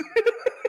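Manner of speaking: loud squealing laugh; high burst of laughter. Real, not acted.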